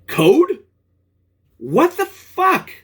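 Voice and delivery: high, drawn-out incredulous what the fuck; can't believe they sent him code; stunned disbelief. Real, not acted. Reading the company's reply.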